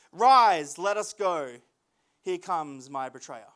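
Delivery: measured scripture reading with weighty pauses. A narrator's reading. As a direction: read it out solemnly, phrase by phrase.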